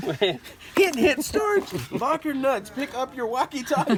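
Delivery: high, calling out on a walkie-talkie; over cb radio. Pretend. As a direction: call your partner over the radio.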